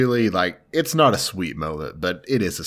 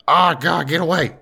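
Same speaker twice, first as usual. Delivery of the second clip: higher, recoiling mock yelp; mock disgust; 8 semitones higher, 4 dB louder than usual. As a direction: jerk back from it in mock horror. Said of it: "he's like".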